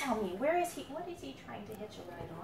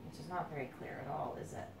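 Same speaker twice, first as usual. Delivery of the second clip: higher and louder to a shouted freedom; building excitement; 6 semitones higher, 11 dB louder than usual. A narrator's reading. Parent reading the escape to the kids, building to a joyful shout. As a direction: race toward the door, then cry out.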